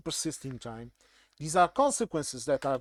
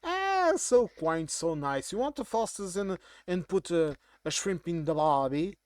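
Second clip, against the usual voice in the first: lightly voiced American fawning over an accent; mock American condescension. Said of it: "Americans m-, many times pretend to not understand".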